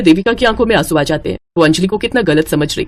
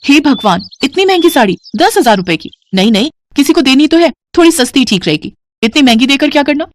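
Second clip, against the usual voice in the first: higher, aghast at the cost; shocked at price; 4 semitones higher than usual. Acted. Young wife alone in the shop, shocked by the price. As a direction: gasp at the price, then talk yourself out of it.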